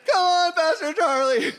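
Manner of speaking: loud, high, voice-cracking yell; hammed-up Seinfeld shout with a cracking voice. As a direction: crack the voice as you yell it, slowly. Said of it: "He just yells and cracks his voice".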